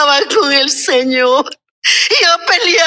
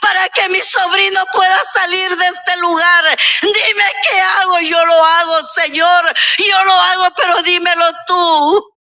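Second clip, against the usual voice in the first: desperate tearful plea; 2 semitones higher than usual. Retold or imitated. Aunt begging God, crying.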